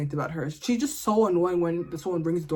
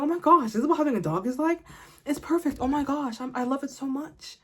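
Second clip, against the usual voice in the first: gushing new owner; 4 semitones higher than usual. Retold or imitated. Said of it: "I'm like".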